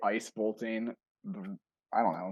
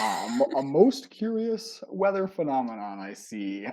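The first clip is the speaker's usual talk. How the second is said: lightly voiced pompous old man; a hint of a musing old sage; 3 semitones higher than usual. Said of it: "I don't know if I can make an old man voice".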